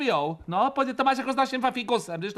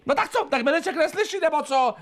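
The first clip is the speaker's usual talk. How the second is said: higher, raised complaint; exasperated raised voice; 5 semitones higher than usual. Acted. Wife complaining Mirek can't hear, raising her voice. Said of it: "Neřvi".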